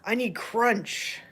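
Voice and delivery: slow cat voice. Pretend. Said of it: "He's like".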